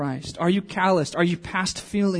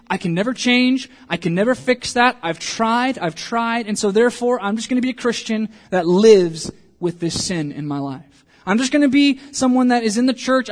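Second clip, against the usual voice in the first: resigned believer; 4 semitones higher than usual. Retold or imitated.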